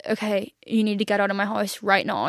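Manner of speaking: controlled, even retold instruction; very calm. Girlfriend asking her ex to leave, very calmly. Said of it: "I very calmly said".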